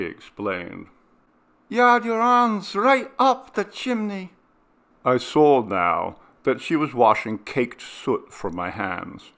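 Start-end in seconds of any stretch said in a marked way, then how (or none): 1.7-4.3 much higher, louder mother's voice; a worried mother exclaiming; alarmed mother. Acted. Mother tells son, alarmed.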